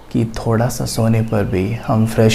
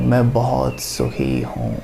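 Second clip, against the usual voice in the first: calming affirmation; 5 dB quieter, slower than usual. Shown as a demonstration. Demonstrates a positive affirmation.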